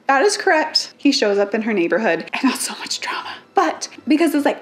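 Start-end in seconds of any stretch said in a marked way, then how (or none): 2.3-3.3 fast conspiratorial whisper; whispered aside. Real, not acted. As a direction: lean in and whisper it quickly like gossip. Dramatic aside while summarizing plot.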